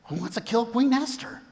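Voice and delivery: retold shocked question. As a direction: play astonished disbelief, lightly. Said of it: "Haman's shocked".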